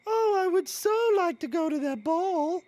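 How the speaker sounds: put-on high, breathy-free dreamy girl voice; wistful princess sigh; Cinderella voice. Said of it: "do your funny voice".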